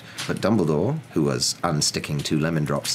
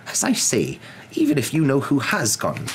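cold; 9 semitones higher, 4 dB louder than usual. Acted. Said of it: "said Professor McGonagall coldly".

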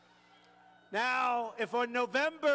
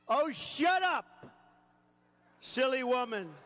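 scornful snake; 5 semitones higher, slower than usual. Acted. Snake mocking the dying woman, scornful shout. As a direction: cut her off with contempt. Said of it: "Said the reptile with a grin".

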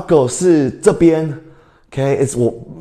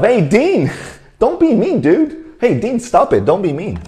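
mock scolding; 8 semitones higher than usual. Real, not acted. Teacher scolds a student.

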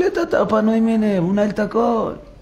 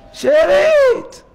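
drawn-out word; 5 dB louder, much slower than usual. Acted. Preacher dwells on key word.

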